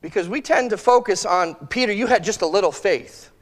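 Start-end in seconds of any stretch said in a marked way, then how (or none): 1.7-3.3 a disappointed put-down, voice a little apart from his own; belittling scolding. Retold or imitated. Preacher mimics how we scold Peter, disappointed tone. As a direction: mildly scold Peter for his small faith. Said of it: "And we say it like that".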